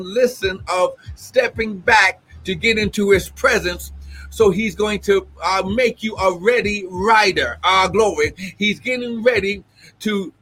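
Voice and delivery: fervent prophecy with exclamations of glory; prophetic preaching. Acted. Prophet releasing a word to the apostle, fervent preaching. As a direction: preach it as an urgent personal word.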